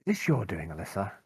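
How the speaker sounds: clothes peg on the nose; pinching nose. Real, not acted. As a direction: talk with the nose pinched shut. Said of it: "the clothes peg on my nose".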